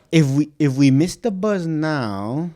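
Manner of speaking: slow German accent attempt; hesitant, drawn-out German accent. Shown as a demonstration. Practising a line on request, German accent. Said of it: "Do this in German".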